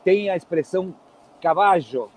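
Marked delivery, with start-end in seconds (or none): 1.4-2.1 caballo with a sh sound, cabasho; Argentine caballo. Shown as a demonstration. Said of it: "os argentinos falam caballo".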